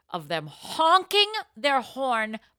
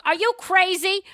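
high, loud mock yell; mock angry neighbour shout; retold yell; 11 semitones higher, 7 dB louder than usual. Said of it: "The neighbors came out and yelled".

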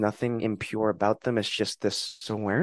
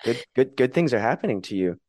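cheerful mirror greeting; 3 semitones higher than usual. Retold or imitated. Greeting herself in the mirror while brushing teeth, cheerful. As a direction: greet your reflection with a happy lift. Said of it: "look in the mirror ... and be like".

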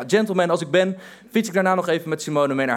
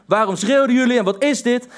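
higher, mock furious shouting; retold angry yell; 5 semitones higher than usual. Angry stranger shouting at passing cyclists, mock yell. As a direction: imitate a stranger yelling at them. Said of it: "hij begint meteen te schreeuwen".

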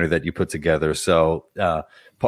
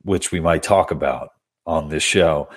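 stuffy nose. Real, not acted. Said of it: "my apologies for the way I sound right now".

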